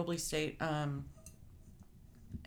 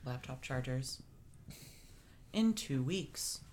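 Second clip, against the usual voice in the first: news reporter voice; 2 semitones lower than usual. Pretend. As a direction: read it like a lightly mocked newscaster. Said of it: "I like your news reporter voice".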